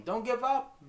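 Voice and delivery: high, loud urgent shout; imitated yelling. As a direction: yell it like a cornerman's plea, imitated. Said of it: "they was yelling".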